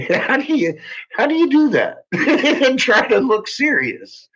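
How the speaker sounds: can barely get it out for laughing. Real, not acted. Streamer cracking up at a rival's video, laughing through it.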